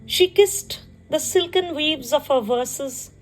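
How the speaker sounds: measured poetry reading with pauses between phrases; poem recitation. Acted. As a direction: recite it line by line, lingering on phrase endings. Recites her own poem.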